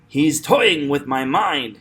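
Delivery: slow line with "toying" stretched; drawn-out, punched "toying"; stress on TOY. Shown as a demonstration. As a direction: lean on the first syllable of "toying". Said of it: "'cause that's stress".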